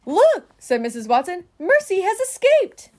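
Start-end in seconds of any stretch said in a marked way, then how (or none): 0.0-0.5 high, loud exclamation; story character's excited shout; excited cry. A narrator's reading. Mrs Watson exclaims at Mercy's escape. 1.6-2.9 high, loud exclamation; dramatic storybook exclamation; excited announcement. A narrator's reading. Mrs Watson exclaims at Mercy's escape.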